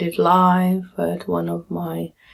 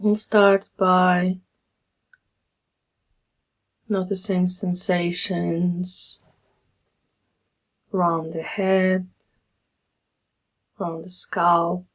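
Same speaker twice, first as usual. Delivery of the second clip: calm, measured meditation guide with long pauses; guided meditation. Acted. Meditation teacher leading listeners through a body scan, calm guiding voice. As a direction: guide them gently through settling, phrase by phrase.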